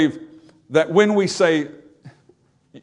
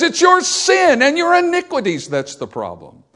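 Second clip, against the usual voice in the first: much higher, ringing voice of God declaring the verdict; God's voice; 10 semitones higher, 3 dB louder than usual. Acted. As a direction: proclaim it from above as God.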